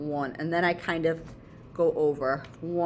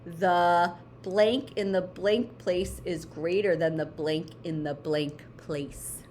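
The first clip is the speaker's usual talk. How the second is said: slow model sentence; 3 semitones lower, slower than usual. Shown as a demonstration. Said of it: "So I want you to say".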